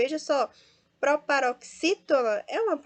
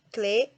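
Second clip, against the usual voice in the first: "Cleo" split in two, loud O; stress on o; 6 dB louder than usual. Shown as a demonstration. Teacher isolates the strong syllable, "Cleo" stressed on O. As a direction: separate "Cleo" and punch the final "o". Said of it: "é a sílaba mais forte".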